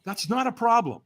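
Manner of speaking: imitated laid-back reassurance. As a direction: let him off the hook casually. Imitating trainer reassuring him.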